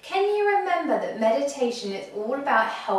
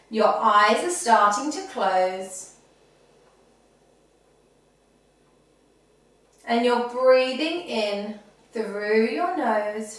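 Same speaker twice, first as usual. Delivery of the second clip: calm, measured meditation voice; guided breathing meditation. Acted. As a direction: guide children gently through each breath. Leads children's breathing meditation.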